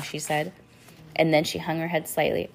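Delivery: usual speaking voice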